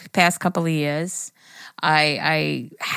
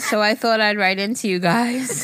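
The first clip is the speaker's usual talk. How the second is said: tipsy reading; 4 semitones higher, 3 dB louder than usual. Real, not acted. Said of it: "I'm a little drunk right now".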